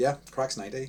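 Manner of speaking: mock dry, bored, flat monotone sarcasm. Retelling a bored man's reply at a work event, in a flat sarcastic tone. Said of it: "very flat, very sarcastic tone".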